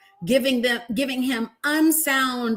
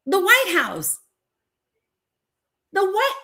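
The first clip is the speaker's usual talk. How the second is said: stunned disbelief; 7 semitones higher than usual. Real, not acted. To viewers about the propped White House door, shocked disbelief.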